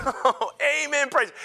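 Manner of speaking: retold fired-up amen, pitched high; high amen with a laugh in it. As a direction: react like you just got fired up. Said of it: "got me so fired up".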